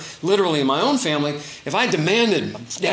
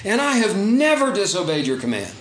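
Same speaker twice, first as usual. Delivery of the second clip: resentful anger; 4 semitones higher, 3 dB louder than usual. Retold or imitated. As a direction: lay out the grievance with bitter weight. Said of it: "you can almost hear the anger in this".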